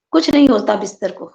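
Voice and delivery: lightly brushing it off; a casual wave-off of worry; offhand dismissal. Shown as a demonstration. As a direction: say it like it's no bother at all. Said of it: "हाँ, इस तरह बोला।".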